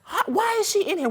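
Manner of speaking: high, mock-astonished inner voice; retold surprise. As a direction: act out double-taking. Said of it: "I was like".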